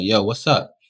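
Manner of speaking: squaring up, street tone; a mild Rochester challenge; confrontational challenge. Retold or imitated. Confronting the roommate's friends with a light street edge. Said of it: "that inner city Rochester came out".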